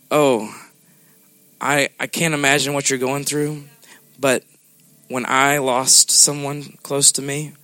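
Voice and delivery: quiet, compassionate sharing, unhurried; gentle sympathy. Acted. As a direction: console softly from experience. Gentle voice of a scar.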